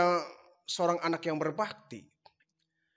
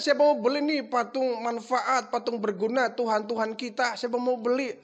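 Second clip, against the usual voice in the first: correct sales call; 5 semitones higher than usual. Retold or imitated. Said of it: "Harusnya begitu".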